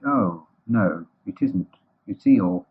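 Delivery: dropping back from excitement; let-down realisation. Acted. Pooh seeing it is no stick, deflated. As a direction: deflate as you realise the mistake.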